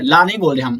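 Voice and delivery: ordinary talk, nothing marked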